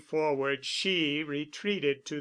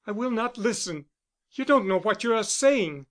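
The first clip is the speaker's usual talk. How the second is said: desperate; 6 semitones higher, faster than usual. A narrator's reading. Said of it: "she cried desperately".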